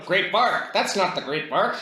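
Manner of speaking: high, laughing mock-awe; mocking Vark voice. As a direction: squeal it like awed goblins.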